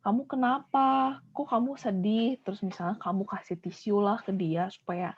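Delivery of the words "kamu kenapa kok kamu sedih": slow, gentle and higher; caring question. Shown as a demonstration. Teacher shows how to comfort a crying friend, gently. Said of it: "kita samperin".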